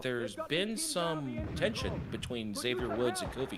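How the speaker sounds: announcer voice, building hype; wrestling commentator. Pretend. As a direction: call it like a ringside announcer. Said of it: "you even said that like a commentator".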